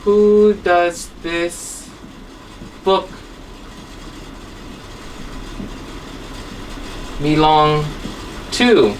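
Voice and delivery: who does this book belong to, word by word with long gaps; teacher writing the example on the board; slow dictation. Shown as a demonstration. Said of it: "For example".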